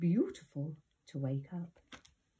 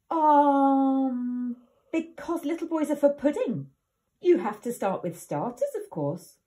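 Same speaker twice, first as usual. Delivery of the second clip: put-on crafty little boy; 6 semitones higher, 7 dB louder than usual. Herb inventing a trick.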